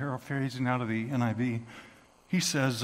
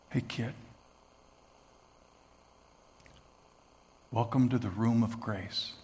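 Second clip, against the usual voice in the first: gentle hostess voice; 4 semitones lower than usual. Retold or imitated. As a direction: speak it like the kindest voice you've heard. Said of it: "as beautiful as any voice I've ever heard".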